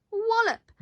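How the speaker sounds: high punchy wallop; crash sound effect. Acted. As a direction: hit the crash word hard. Birds crash into iceberg.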